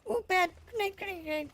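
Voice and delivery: loud urgent shout of grenade; grenade warning yell. Real, not acted. Grenade thrown in firefight.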